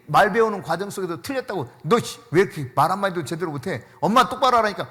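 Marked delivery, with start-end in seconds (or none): 1.8-4.8 mock scolding, louder, exasperated; scolding mother. Pastor imitates a mother scolding a child for mistakes, mock scolding. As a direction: play a mother snapping at her child. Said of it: "하고 혼내는 엄마 있어요?".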